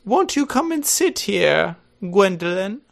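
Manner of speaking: haughty aunt beckoning her daughter; Lady Bracknell. Acted. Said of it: "you're gonna be playing Lady Bracknell".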